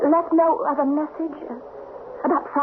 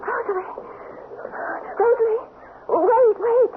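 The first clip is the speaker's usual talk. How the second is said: calling out; 10 semitones higher than usual. Real, not acted. Running after her maid, calling.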